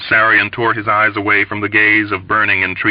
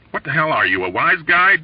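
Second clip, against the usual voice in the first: yelling back; 7 semitones higher than usual. A narrator's reading. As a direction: yell back at the heckler. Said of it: "Dobbs yelled back".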